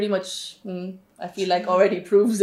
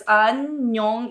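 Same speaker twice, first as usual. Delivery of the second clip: syllable by syllable. Shown as a demonstration. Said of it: "it's like they split up the word".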